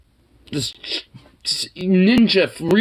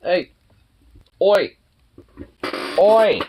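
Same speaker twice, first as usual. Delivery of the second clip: sharp louder call; calling the pet, louder; 3 semitones higher, 3 dB louder, slower than usual. Real, not acted. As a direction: call across the room to get attention.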